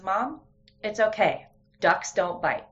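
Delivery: a hint of a confident little girl; confident child. Mom voicing daughter about duck.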